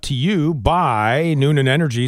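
even, polished announcer delivery; radio weather read. Acted. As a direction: read it like a morning radio forecast. Reads weather and sponsor.

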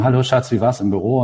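mock ad dialogue. Creative mocking junior writers' radio spots, lightly acted cliché spouse. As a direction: lightly parody a cheesy radio-spot greeting. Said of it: "die fangen an mit Palim Palam".

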